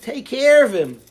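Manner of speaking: king's loud command. Retold or imitated. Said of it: "the melech says to people".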